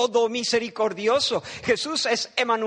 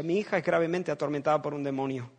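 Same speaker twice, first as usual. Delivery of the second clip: pained mother; 5 semitones lower, 4 dB quieter, faster than usual. Shown as a demonstration. Preacher makes the flock hear a mother's pain softly. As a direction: let the pain sit in every word. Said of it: "Ahora escucha".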